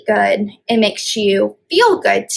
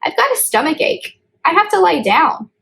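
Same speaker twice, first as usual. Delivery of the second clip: put-on higher-pitched voice of a goat kid with a stomach ache; a young goat's higher voice, complaining of a sore tummy; sick little goat; 6 semitones higher than usual.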